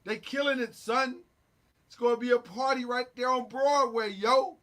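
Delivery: amateur attempt at a New York accent; trashy New York accent. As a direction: talk like a hyped New Yorker, accent half-working. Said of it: "My New York accent is trash".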